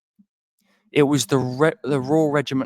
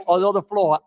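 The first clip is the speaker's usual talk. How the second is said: laughing; 8 semitones higher, 4 dB louder than usual. Real, not acted. Laughing at tortoise joke.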